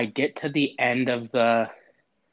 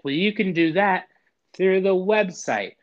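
chirpy robot lady; 8 semitones higher, 5 dB louder than usual. Retold or imitated. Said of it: "And she's like".

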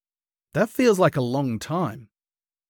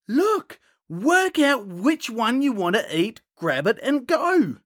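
high, bossy sister voice, pitched well up; bossy big sister; 8 semitones higher than usual. Retold or imitated. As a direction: boss your little sibling around at dessert time. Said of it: "your sister's like".

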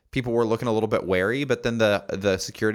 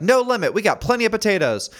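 much higher, louder boasting; proud produce guy; 13 semitones higher, 5 dB louder than usual. Retold or imitated. Produce guy reassuring the shopper, higher and louder. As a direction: brag about the potato stock. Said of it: "He's like".

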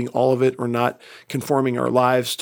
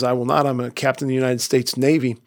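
irate captain. Retold or imitated. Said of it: "The captain is irate by this time".

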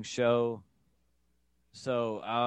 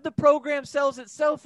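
much higher, louder mock pitchman voice; salesy recruiter; 7 dB louder than usual. Son mimicking the recruiter's sales pitch to his dad, high and salesy. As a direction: sell it like a cheesy recruiter.

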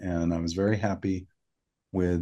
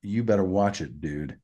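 lightly lowered tough-guy warning; a hint of low, stern husband; lower octave Paris. Host voices Paris warning his wife's insulter, lower octave. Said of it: "That's lower octave Paris".

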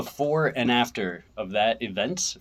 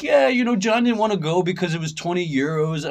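high, loud mock German explanation; pitched-up German accent, retelling a grievance; 8 semitones higher, 5 dB louder than usual. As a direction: imitate an excitable German friend. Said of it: "he's got that German accent".

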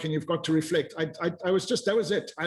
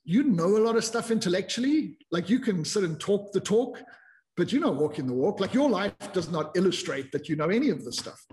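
scolding self-talk; 3 semitones higher than usual. Retold or imitated. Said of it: "And then I realized".

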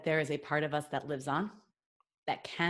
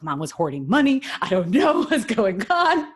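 excited brother; 3 semitones higher, 7 dB louder than usual. Retold or imitated. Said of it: "He's like".

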